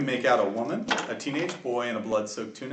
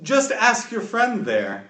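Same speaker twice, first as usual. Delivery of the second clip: smiling menace; 3 dB louder than usual. Acted. Half-dragon taunting Zahn about his parents, smiling menace. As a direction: savour the threat with a smile. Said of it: "smiles and points his finger at Zahn and says".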